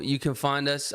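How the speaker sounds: put-on light British accent on You can find us. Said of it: "you have to do it in a British accent".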